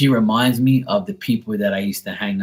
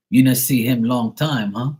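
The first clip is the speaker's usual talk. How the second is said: put-on dad's foreign-accented broken English; mock broken-English accent; 3 semitones higher, 4 dB louder than usual. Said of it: "he said it in broken ass English".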